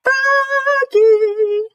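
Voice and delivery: high, loud call of a name. A narrator's reading. Father calling his son to get up. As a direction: call him from across the house. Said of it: "called his father".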